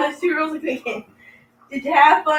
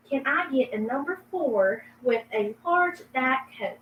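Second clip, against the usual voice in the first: Southern accent; 7 dB quieter than usual. Shown as a demonstration. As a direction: order at a drive-thru in a Southern accent. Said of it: "please speak in a southern accent".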